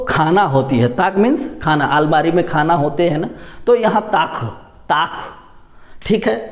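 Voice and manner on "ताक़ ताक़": ताक said as "taaq", the k made far back in the throat; nukta q ending. Shown as a demonstration. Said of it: "क में हमने नुक्ता लगा".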